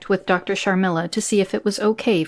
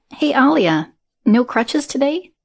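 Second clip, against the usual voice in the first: higher, louder call across the field; 7 semitones higher, 4 dB louder than usual. A narrator's reading. Katie calls out to Alia across the soccer field, higher and louder. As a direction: call out cheerfully to a teammate walking over. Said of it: "Katie called out".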